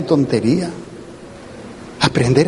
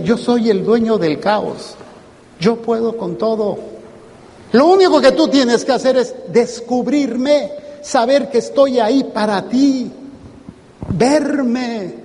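lightly voiced Jesus, higher and earnest; 5 semitones higher than usual. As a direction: speak as Jesus reassuring his followers. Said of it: "para decir". (Jesús hablando con voz cálida y segura)

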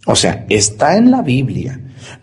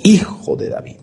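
whispered address; 7 semitones higher than usual. Acted. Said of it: "le dice".

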